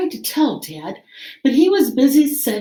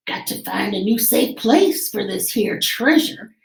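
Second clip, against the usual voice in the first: pirate announcing. Acted. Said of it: "he announced".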